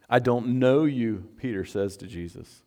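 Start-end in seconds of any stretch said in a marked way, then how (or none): 0.1-1.3 Peter's denial. Acted. Peter to Jesus, denying him loud and slow. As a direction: lean hard into each word.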